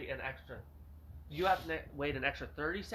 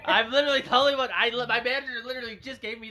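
laughing; 8 semitones higher, 12 dB louder than usual. Real, not acted. Friend mocks the reply, laughing.

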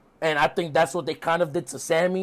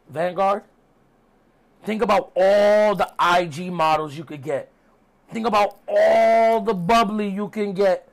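mock coaxing sales pitch; Chris Jericho. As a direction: stretch the tempting words to entice. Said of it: "Jericho calms down, and he was saying".

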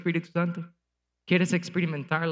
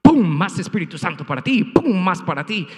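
punchy mock preacher giving out the Spirit, pum loud; a pastor tossing out the Holy Spirit with a loud pum; mocking showy pastor; 6 dB louder than usual. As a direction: parody a flashy pastor handing out blessings. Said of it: "el pastor baja y dice".

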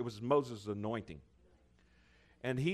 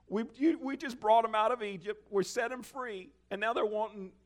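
exasperated Moses; 9 semitones higher than usual. Retold or imitated.

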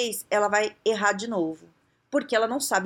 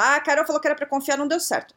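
higher, quicker excuse of a lazy employee; mock excuse; 5 semitones higher, 4 dB louder, faster than usual. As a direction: toss off the excuse like a shrugging employee. Funcionário se desculpando, imitado. (desculpa esfarrapada imitada, mais aguda e rápida)

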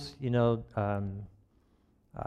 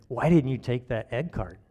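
nagging false-self voice; 3 semitones higher than usual. Acted. Preacher voicing his false self over egg cartons, mildly nagging. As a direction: lightly play a nagging inner critic, stretching the end. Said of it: "other false self voice comes back".

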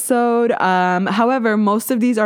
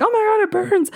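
high whiny mock quote; mock complaint; 13 semitones higher than usual. Quoting people who hate the swab, high mock whine. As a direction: imitate a pained friend, pitched up. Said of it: "some people are like".

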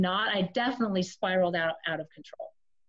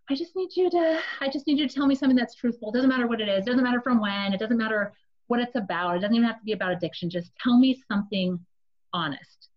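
pleading; 3 semitones higher, faster than usual. Retold or imitated. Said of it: "And so I said".

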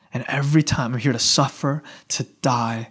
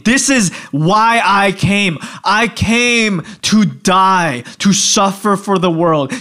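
slow, emphatic declaration; acted-out forceful correction; stern rebuke; 2 semitones higher, slower than usual. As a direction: drive each phrase home slowly. Jesus rebukes Peter in acted quote.

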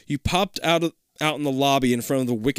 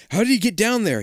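wondering aloud; 8 semitones higher, 3 dB louder than usual. Acted. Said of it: "you wonder".

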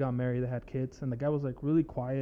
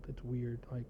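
whispering; 9 dB quieter than usual. Real, not acted. Drops voice mid-thought.

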